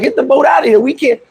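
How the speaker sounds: retold screaming. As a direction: imitate passengers shouting at a family. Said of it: "They start screaming at".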